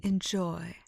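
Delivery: sarcastic whisper. Acted. Parting whispered jab.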